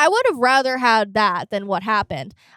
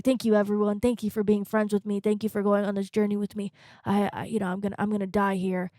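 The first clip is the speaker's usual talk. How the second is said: softer, fading farewell, mock solemn; mock dying farewell; 2 semitones lower, 6 dB quieter than usual. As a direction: say goodbye as if bleeding out.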